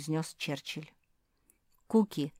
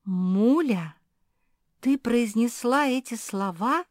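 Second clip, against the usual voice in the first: stunned indignant question; taken aback; 6 semitones higher, 8 dB louder, slower than usual. Acted. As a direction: ask in disbelief. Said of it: "опешила Зефирка".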